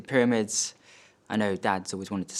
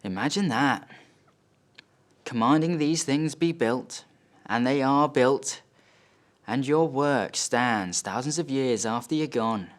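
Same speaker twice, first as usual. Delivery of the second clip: slow, rising wonder; awed dad; 4 semitones higher than usual. Acted. Dad to son before the pyramids, slow and awed. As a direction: marvel aloud, stretching out the words. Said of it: "and he goes".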